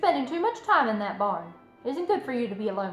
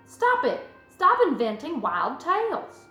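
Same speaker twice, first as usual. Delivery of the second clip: higher, exasperated motherly scolding; snapped; 5 semitones higher, 4 dB louder, slower than usual. A narrator's reading. Mother halting Fern's wild tales, snapping. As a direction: put a firm stop to it. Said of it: "snapped her mother".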